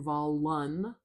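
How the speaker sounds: "volun" with a full UN as in "sun"; wrong full vowel. Shown as a demonstration. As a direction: give the second syllable of "volun" a full vowel. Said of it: "I'm not saying volun".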